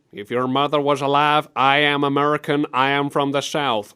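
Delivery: stiff, put-on American Southern voice; hammy Southern American delivery; mock Southern accent. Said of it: "a guy who goes".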